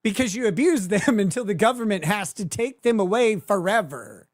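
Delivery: sarcastic laughing retort; laughing scorn. Real, not acted. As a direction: scoff at the word fear. Mocking S1's speech about fear.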